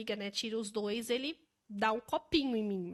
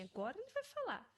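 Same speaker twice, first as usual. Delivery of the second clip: high, tense mock dread before the outburst; anxious anticipation; 9 semitones higher, 8 dB quieter than usual. Parents whispering to each other, bracing for it. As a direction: brace for the blow, voice lifted.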